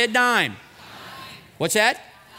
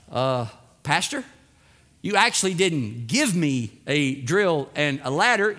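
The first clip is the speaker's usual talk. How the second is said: low, hesitant opening, then measured correction; acted neighbor politely setting the pastor straight, pitched low; correcting neighbor; 7 semitones lower than usual. Neighbor correcting pastor about his own tools, hesitant and low. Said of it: "You would say".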